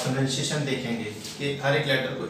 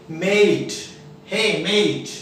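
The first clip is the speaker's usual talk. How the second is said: calling a friend; 3 semitones higher, 4 dB louder, much slower than usual. Shown as a demonstration. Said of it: "जैसे किसी दोस्त जा रहा है".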